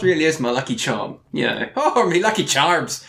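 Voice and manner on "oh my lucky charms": a quick, hammed-up Irish accent on the phrase; terrible Irish accent. Podcast host jokes about his lucky charm, in a badly faked Irish accent. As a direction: toss off a bad Irish accent as a joke. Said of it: "That was a terrible accent".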